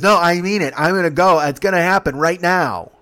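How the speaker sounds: acted-out demanding protest; mock urgent insistence. Ron insists urgently to his friends.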